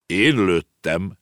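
slow, deliberate announcement; mysterious voice. Acted. Unseen chief answering who shot, slow pronouncement. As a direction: declare it slowly, out of nowhere. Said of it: "szólalt meg egy hang".

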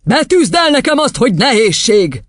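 high, forceful order; commanding headmistress. Acted. Headmistress testing a small girl, high command. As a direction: demand it from a small pupil.

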